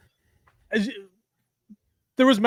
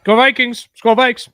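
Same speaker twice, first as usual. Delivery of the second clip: cheering; 3 semitones higher, 10 dB louder than usual. Real, not acted. Cheering for his team.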